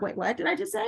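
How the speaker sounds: high-pitched acted disbelief at yourself; startled double take. Parent realizing what she agreed to, mock startled. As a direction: catch yourself, pitch shooting up on the question.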